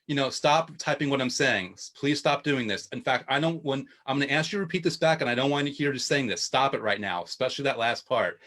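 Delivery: stenographer reading the record back; deadpan reading. Retold or imitated. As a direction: imitate a toneless read-back of an angry rant. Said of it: "this deadpan thing just reading it".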